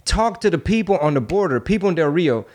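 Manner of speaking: high-pitched exasperated questioning; incredulous challenge. Retold or imitated. Arguing back at staging claims.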